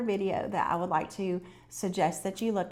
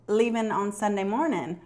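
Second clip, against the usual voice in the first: wrong lyric; 3 semitones higher, 4 dB louder than usual. Retold or imitated. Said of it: "And he said".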